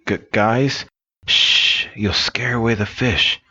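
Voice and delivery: stuttering and shushing at once; stuttering whisper. Acted. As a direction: stumble on the first sound then shush them. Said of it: "and he goes".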